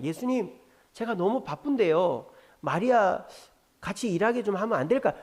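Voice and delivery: polite, tentative request; Martha. Shown as a demonstration. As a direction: ask gently for a favour, without reproach. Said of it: "이렇게 얘기하면 되는데".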